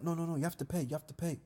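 high-pitched, pushy no no no; insistent seller. Retold or imitated. French seller demanding payment, high insistent mock voice. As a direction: imitate a vendor insisting she pays.

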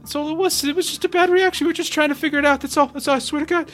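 frightened pleading. Acted. NPC pleads under interrogation.

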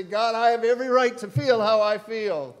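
loud, high indignant protest to God. Retold or imitated. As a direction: insist on your right to your feelings. Voicing a defiant listener.

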